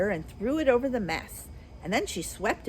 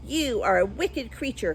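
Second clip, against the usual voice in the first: angry cry; 3 semitones higher than usual. Acted. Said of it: "cried Dorothy".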